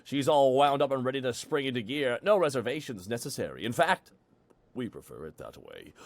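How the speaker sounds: coy advertising voice; teasing promo read. Acted.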